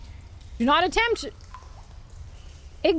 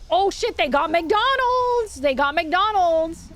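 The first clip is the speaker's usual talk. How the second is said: surprised; 3 semitones higher, slower than usual. Real, not acted. Surprised to find McDonald's.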